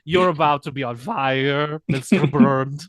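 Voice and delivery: slow, loud gloating villain; villain monologue. Acted. Mock Bond villain taunting.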